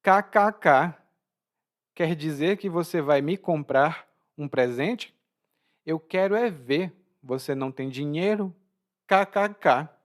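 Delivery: taunting mock laugh framing a doubt; mocking disbelief, acted as an example; ironic. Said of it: "como uma maneira de ironizar".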